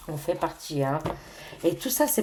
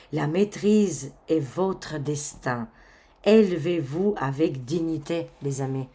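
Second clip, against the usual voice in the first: card reading. Acted. Reading card messages slowly.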